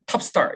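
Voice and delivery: "top star" with a short, cut-off top; short vowel in top. Shown as a demonstration. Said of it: "이렇게 되면 이상해요". (짧은 모음의 콩글리시식 "top star")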